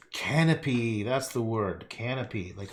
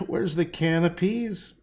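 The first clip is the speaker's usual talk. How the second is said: mock puzzled; 7 semitones higher, 4 dB louder, slower than usual. Real, not acted.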